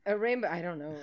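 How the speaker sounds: giggling over the quiz answer; laughing. Real, not acted. Host laughing at the silly quiz option while reading it.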